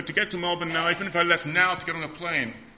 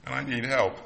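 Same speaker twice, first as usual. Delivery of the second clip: mayday call; 2 semitones higher, 4 dB louder than usual. Pretend. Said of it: "call out to him".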